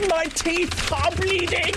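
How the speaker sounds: very high, slow crank voice; mock lunatic. Imagining someone with body issues typing in, mock lunatic voice. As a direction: stretch it out up high like a daft oddball. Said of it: "someone who types like that".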